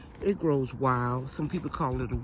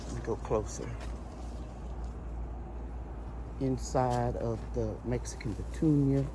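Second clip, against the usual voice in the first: soft, muffled through a mask; 3 semitones lower, 7 dB quieter than usual. Real, not acted. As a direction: speak through a cloth mask. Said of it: "if I sound a little muffled".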